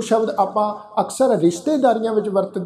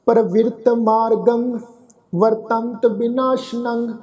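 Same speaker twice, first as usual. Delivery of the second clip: slow recitation; slower than usual. Shown as a demonstration. Recites verse slowly.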